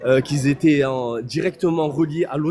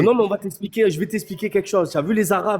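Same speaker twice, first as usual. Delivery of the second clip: higher, urgent cut-in; heated interjection; 5 semitones higher than usual. Real, not acted. Speaker cutting in on a heated debate, raised and urgent. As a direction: jump in high to take the floor.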